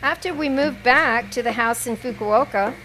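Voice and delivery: measured poetry recital with pauses between phrases; deliberate, evenly phrased poem reading. Acted. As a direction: read it out as a poem, line by line. Reads own poem aloud.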